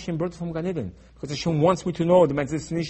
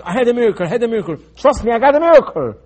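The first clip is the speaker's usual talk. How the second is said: mock boasting; 6 semitones higher, 7 dB louder, faster than usual. People boasting of miracles.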